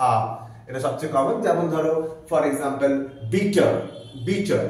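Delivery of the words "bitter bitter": bitter said clearly, short i, no r; bitter with a schwa ending, r dropped; ending বিটার like bittə; model word bitter. Shown as a demonstration. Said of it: "বিটার শব্দটাকে যদি একটু transcribe".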